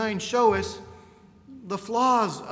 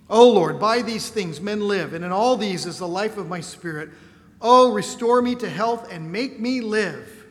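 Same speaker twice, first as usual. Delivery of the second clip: louder, pleading cry to the Lord; impassioned prayer reading; 7 dB louder than usual. Acted. Preacher voicing the sick king crying to God, louder and pleading. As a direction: read it as Hezekiah begging to live. Hezekiah's prayer read aloud.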